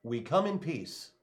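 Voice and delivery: slow, deliberate alien envoy voice; Martian accent. Pretend. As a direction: put on his Martian accent. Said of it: "you've been working on your Martian accent".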